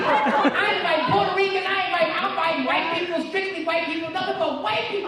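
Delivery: loud, laughing punchline; punchline shout. Real, not acted. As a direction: belt the twist at the crowd.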